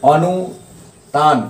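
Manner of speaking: stretched out slowly, syllable by syllable; slow dictation. Shown as a demonstration. Teacher slowly spells the new term for the class. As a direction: draw the term out slowly so students can write it. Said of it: "क्या होगा?".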